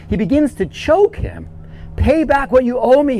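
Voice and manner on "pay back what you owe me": demanding servant. Retold or imitated. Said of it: "he demanded".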